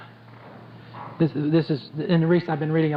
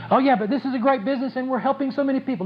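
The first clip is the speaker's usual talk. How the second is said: mock excuse-maker; 6 semitones higher, faster than usual. Mocking an excuse-making distributor.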